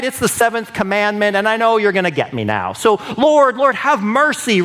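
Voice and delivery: mock a sinner pleading to dodge punishment; whiny self-pitying prayer. Sinner begging God to avoid consequences, whiny plea. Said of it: "David didn't say".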